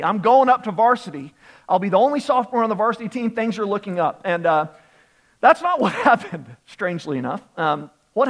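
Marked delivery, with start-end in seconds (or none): 0.0-4.2 higher, louder retold excited thought; excited anticipation. Player cheering himself on about going up to varsity, excited anticipation. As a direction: retell a hopeful inner cheer.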